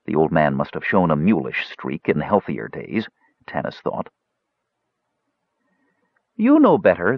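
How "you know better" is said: high, louder protest; objecting wizard. A narrator's reading. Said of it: "the wizard objected".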